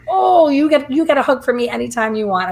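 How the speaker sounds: high, gushing imitation of a happy man; imitated delighted exclamation. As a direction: burst out high on the oh, then rush on. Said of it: "happy man".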